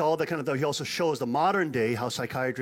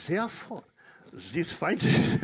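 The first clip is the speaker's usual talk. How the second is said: higher, slightly put-on German accent on "Therefore, these findings"; 5 semitones higher, slower than usual. Preacher restarts the scientist's quote in mock German accent. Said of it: "if I do that language".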